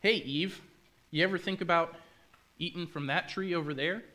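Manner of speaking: snake. Acted. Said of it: "and it says".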